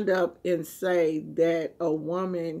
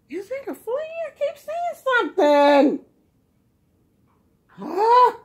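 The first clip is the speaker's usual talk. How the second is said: startled; 13 semitones higher, 5 dB louder than usual. Real, not acted. Spots a flea on dog.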